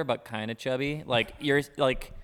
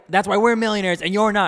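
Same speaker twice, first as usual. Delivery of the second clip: much higher, louder mocking rant; shrill-pitched loud parody of his boast; mock furious; 10 semitones higher, 10 dB louder, faster than usual. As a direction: ham up the angry customer. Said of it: "he says, like".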